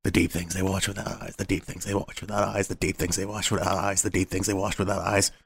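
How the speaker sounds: talking to himself. Acted. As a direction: repeat it to yourself like an eerie refrain. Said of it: "talking to himself".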